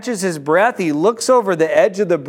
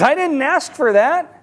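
higher-pitched, mild protest; 6 semitones higher than usual. Acted. Man holding the rope objects to the burden, protesting. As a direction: object as if calling down. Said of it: "He looks down, he says".

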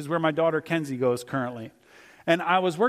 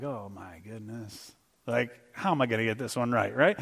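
much lower and softer, worried under the breath; muttered panic; 8 semitones lower, 5 dB quieter than usual. Retold or imitated. Substitute teacher dreading a roll-call name, low and soft. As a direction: mumble it to yourself in dread. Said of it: "And I'm like".

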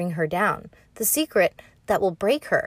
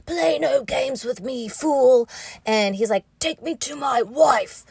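stern Ned; 4 semitones higher than usual. Retold or imitated. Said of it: "then he's like".

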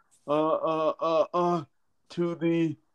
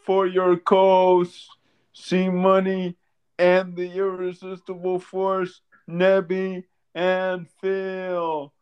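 loud, slow wrestling hype intro; Big E New Day intro; 3 semitones higher, 4 dB louder, slower than usual. Pretend. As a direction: belt it out like a ring entrance. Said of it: "would you mind hitting us with the Big E New Day intro?".

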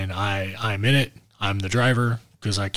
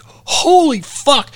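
slow, high gasp of shock; 5 dB louder, much slower than usual. Retold or imitated. Driver spotting a dead deer on the road, high drawn-out shock. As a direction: stretch it out in sudden horror.

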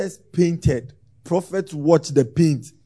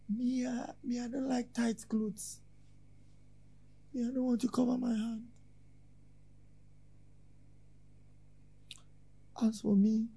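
offended church member; 7 semitones higher, 16 dB quieter than usual. Acted. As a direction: mimic a hurt complainer in a small high voice. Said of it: "Some people feel insulted".

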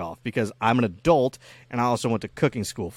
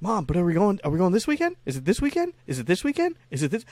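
put-on higher, pleading kid nagging; whiny kid; 8 semitones higher than usual. Little Nick begs mom about the weekend, higher whiny pleading. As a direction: nag like an impatient little boy.

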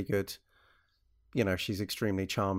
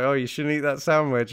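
bad American accent; 5 semitones higher, 7 dB louder than usual. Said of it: "my American accent is so terrible".

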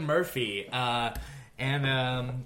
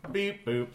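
robot voice; 2 semitones lower than usual. Pretend. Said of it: "the part where we just make noises".

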